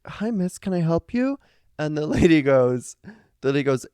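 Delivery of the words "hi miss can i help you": mock polite. Friend answers knock at door.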